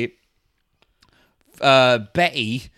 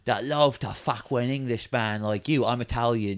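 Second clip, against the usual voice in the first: Steve-O; 3 semitones lower, 7 dB quieter than usual. Acted. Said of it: "So now Steve-O has video".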